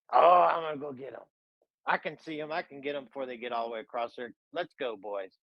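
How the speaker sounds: fast, gloating rush that trails away; a cocky king already sure of the catch; eager Pharaoh. Acted. Pharaoh rallying his army, fast and gloating.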